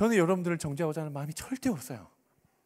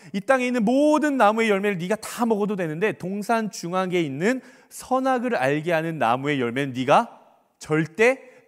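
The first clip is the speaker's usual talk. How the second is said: loud, slow command hammering each 절대; emphatic divine command; 3 semitones higher, 6 dB louder than usual. Acted. God forbidding Adam the tree's fruit, emphatic command. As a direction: stretch and pound out every prohibition. Preacher acting out God's command.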